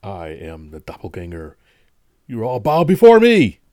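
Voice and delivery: slow, menacing villain voice; booming evil overlord; dark lord. Pretend. Doppelganger joke at show close.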